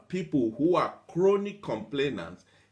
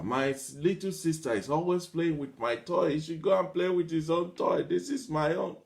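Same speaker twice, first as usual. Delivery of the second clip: lightly voiced whiny kid, a little higher; a hint of a child whining to a parent; 3 semitones higher than usual. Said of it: "Kids are complaining about their friends".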